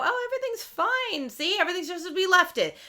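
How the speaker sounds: high, fast, too-cheerful cover-up; imitating a husband feigning calm; mock innocent husband. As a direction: act like nothing happened, chirpy and guilty. Retold Rob hiding the mess.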